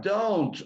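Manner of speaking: don't said as "dont"; teacher modelling don't. Shown as a demonstration. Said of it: "observen que la pronunciación de la O".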